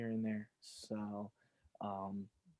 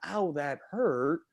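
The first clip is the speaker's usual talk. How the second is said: put-on little kid whine; 3 semitones higher, slower than usual. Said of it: "six years old".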